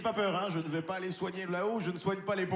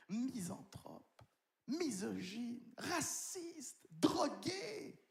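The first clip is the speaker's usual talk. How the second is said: rising excited list; 7 semitones higher, 7 dB quieter, much slower than usual. Pretend. Rising mock trailer build.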